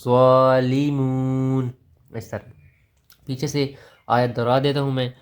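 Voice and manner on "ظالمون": ظالمون stopped on a silent-vowel نون, zalimun, drawn out; pause reading. Shown as a demonstration. Teacher showing the stop on ظالمون, ending zalimun. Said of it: "اب وقف کر رہے ہیں تو نون معکوف".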